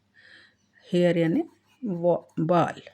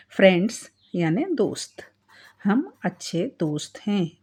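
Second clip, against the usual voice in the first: whisper. Real, not acted. Teacher explains words.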